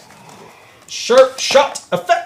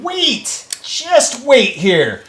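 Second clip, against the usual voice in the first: higher and louder, building excitement; excited chat read; 11 semitones higher, 6 dB louder than usual. Retold or imitated. Reading a fan's idea to the stream, hammed-up excitement. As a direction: sell the foam idea like a big reveal. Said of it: "Advexen said".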